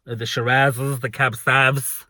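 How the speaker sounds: lightly put-on camp voice, drawn out; camp gay voice. Worker listing wine sections, lightly camp voice. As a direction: stretch the words in a slightly camp voice. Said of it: "I did it in the gay voice".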